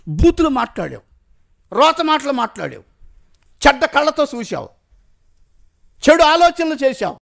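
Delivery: a preacher voicing God's rising rebuke of a sinner; building rebuke.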